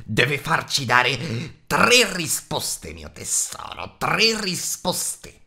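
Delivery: very slow, drawn-out creature hiss; Gollum hissing. A narrator's reading. Gollum demanding three guesses from Bilbo, slow hiss. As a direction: Gollum hisses his demand. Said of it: "sibilò Gollum".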